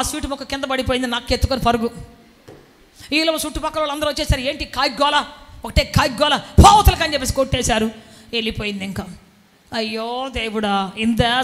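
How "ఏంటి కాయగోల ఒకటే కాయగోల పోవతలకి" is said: neighbours yelling, building to a loud shout; rising shout to drive the noisy bird off; angry neighbours shouting. Retold or imitated. Neighbours chasing the cawing crow off, angry yell.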